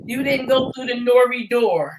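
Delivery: lightly put-on impersonation; Hassan Campbell voice. Co-host quotes the door line to the others, light impersonation. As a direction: imitate him lightly, close to your own voice. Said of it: "In my Hassan Campbell voice".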